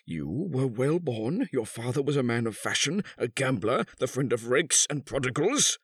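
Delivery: high, deliberate recital swelling to an outburst; bitter accusation. A narrator's reading. Husband recounts the bought marriage, bitterly accusing. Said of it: "The old man continued".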